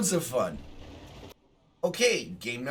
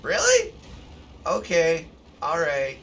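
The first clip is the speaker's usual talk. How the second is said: incredulous; 3 semitones higher, 6 dB louder than usual. Retold or imitated. Streamer rammed by the troll, squealing in disbelief. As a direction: squeal in disbelief, then resign. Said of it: "I'm like".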